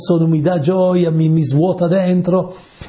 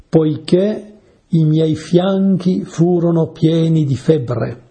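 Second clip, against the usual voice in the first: slow, raised and drawn out, like reciting a psalm; solemn scripture reading; 3 semitones higher, slower than usual. Acted. Preacher reads the psalm to his listeners, slow and solemn. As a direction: lean into each word of the verse, slowly.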